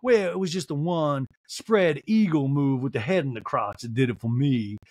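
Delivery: slow mock-demure explanation. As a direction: imitate a demure lady, unhurried. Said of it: "Sutton very demurely goes".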